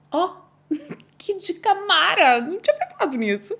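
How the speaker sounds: bright, laughing delight at a clever tip. Retold or imitated. Mother recalling a nurse's tip, laughing with delight. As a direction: laugh and gush over the tip, pitched high.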